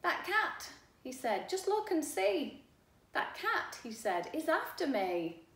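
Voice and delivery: high, loud frightened warning; alarmed frog. Acted. Frog warns the boy of the cat, high and scared. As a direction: frog urgently points at the cat.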